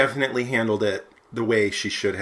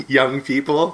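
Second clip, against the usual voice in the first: put-on old man voice; 4 semitones higher, 5 dB louder, slower than usual. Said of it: "in my old man voice".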